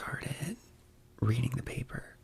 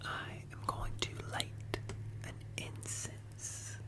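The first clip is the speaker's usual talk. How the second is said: breathy intimate ASMR whisper. Real, not acted.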